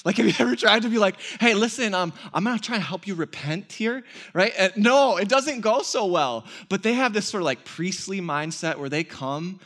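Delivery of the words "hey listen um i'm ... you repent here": barge in trying to talk sense; a mock pushy appeal to a raging man; pushy reasoning. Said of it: "reason with somebody who's in rage".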